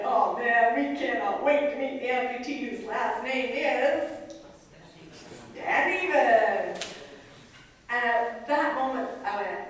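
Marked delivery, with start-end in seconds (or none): 0.0-6.8 laughing therapists. Retold or imitated. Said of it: "kept laughing and went".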